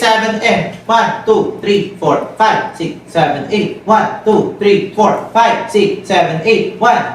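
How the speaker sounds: rhythmic count-in called to the dancers. Real, not acted. Coach counting the beat for dancers, steady rhythmic chant.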